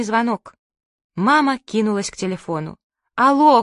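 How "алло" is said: loud high call of hello; shout into phone. Acted. Mother shouting into the long-distance phone, loud. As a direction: shout down a bad phone line. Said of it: "крикнула она в трубку".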